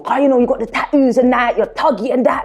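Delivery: lightly voiced casual brother; imitating brother. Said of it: "He was like".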